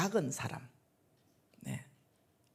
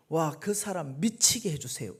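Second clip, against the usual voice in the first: louder, furious demand; angry prayer; 6 dB louder than usual. Retold or imitated. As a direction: spit out the curse in anger. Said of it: "막 화를 내면서". (분노에 차서 크게 외치는 기도)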